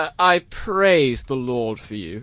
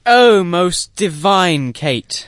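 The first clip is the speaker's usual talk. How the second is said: loud and slow, swooning; swooning declaration; 3 semitones higher, 6 dB louder, much slower than usual. Acted. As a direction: proclaim her name, overcome. Lover swoons.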